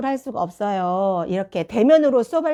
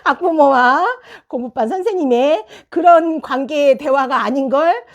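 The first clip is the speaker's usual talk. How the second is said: laughing; 5 semitones higher, 5 dB louder than usual. Retold or imitated. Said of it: "우리 신랑 하는 말이".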